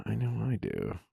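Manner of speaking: low breathy seductive voice; sexy voice. Acted. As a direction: play it low and sultry. Allie, are you uncomfortable yet?.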